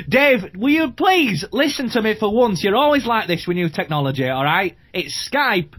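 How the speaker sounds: pub bloke. Acted. Pub bloke scolding Dave.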